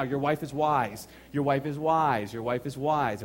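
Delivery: slow, each word of "Your wife is wise" leaned on; slow emphatic repetition. Shown as a demonstration. Preacher telling husbands their wife is wise, slow and emphatic. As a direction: drive home "wise" slowly and firmly. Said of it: "Exactly how she said it".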